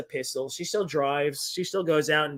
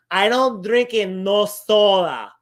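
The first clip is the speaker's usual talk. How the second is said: mock grandma; 2 semitones higher, 6 dB louder, slower than usual. Grandma denying soda.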